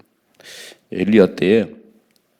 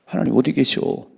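higher, scoffing voice of the wicked; mocking sinners; 5 semitones higher than usual. Preacher mimicking sinners who scoff that God can't see, slightly higher. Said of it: "이렇게 말하잖아요".

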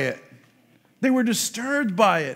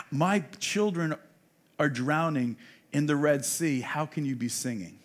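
low, soft, grieving rebuke; sorrowful God; 7 semitones lower, 5 dB quieter than usual. Retold or imitated. God rebukes angels over drowning Egyptians, low sorrowful voice. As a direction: speak as a grieving father, hushed.

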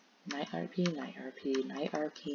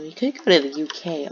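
voice crack; 6 dB louder than usual. Real, not acted. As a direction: voice cracking mid-phrase. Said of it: "voice crack".

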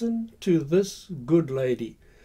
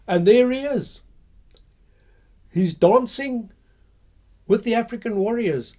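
excited; 6 semitones higher, 6 dB louder than usual. Real, not acted. Excited reveal of Jameson dancing.

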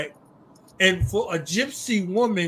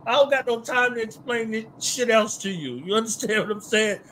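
excited explaining; 5 semitones higher than usual. Real, not acted. Excited, laughing movie breakdown.

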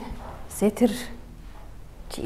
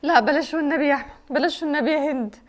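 desperate begging; 3 semitones higher than usual. Acted. Stepmother begging forgiveness.

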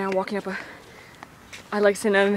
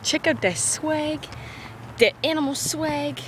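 slow high hype; 7 semitones higher, slower than usual. Pretend. Hyping the animal.

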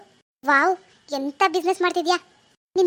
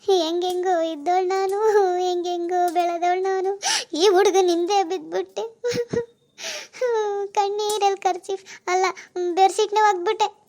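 tearful wailing. Acted. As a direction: wail out the sorry story, dragging the words. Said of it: "ಅಳ್ಬೇಡ ರಾಣಿ".

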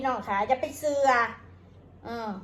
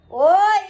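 exasperated cry; 4 semitones higher, 7 dB louder, much slower than usual. Real, not acted. Exasperated at legal threats.

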